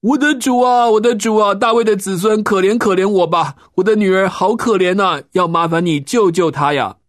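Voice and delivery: high, loud pleading cry to the master; desperate crying out. A narrator's reading. Mother begging Jesus to heal her daughter, loud high pleading cry. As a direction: beg at the top of your voice for your child. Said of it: "还一边喊着说".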